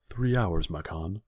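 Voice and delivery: eager servant answering fast; anxious to please; nervous servant. A narrator's reading.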